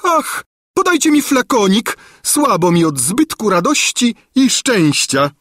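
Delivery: gush, then ask for smelling salts; swooning old lady. A narrator's reading. Gburia Furia swooning to the king, high and loud.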